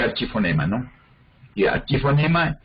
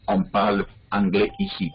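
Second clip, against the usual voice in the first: French sentence; 3 semitones lower than usual. Shown as a demonstration. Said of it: "por ejemplo".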